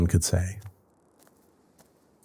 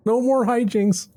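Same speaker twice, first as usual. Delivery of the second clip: much higher, slow sing-song vow; mock solemn promise; slower than usual. Promising the cousin no more trouble, in a high slow sing-song. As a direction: swear it like a sweet little scout, slowly. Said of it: "Scout's honor".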